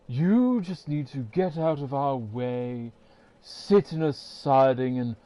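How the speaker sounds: a light hint of a smooth, oily, smug engine; oily smooth Diesel. A vlogger mimicking Diesel's smug boast in an oily voice. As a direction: purr it like a smug kiss-up with a little oil in it. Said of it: "It's an oily voice, a smooth voice".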